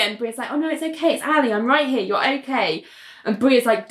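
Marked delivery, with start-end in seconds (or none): 0.5-2.8 high, gentle reassurance settling downward; acted tender calming; soothing. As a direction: comfort someone waking in a panic. Friend soothes the panicking patient.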